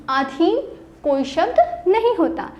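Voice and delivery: slow and firm, leaning on नहीं; stress on नहीं. Shown as a demonstration. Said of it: "teacher stresses the point". (नहीं पर ज़ोर देकर धीरे से)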